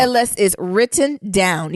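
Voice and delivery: slow, loud and deliberate; hammed-up slow declaration; emphatic retelling. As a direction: drive each word home, loud and drawn out. Hammed-up retelling of the man's line.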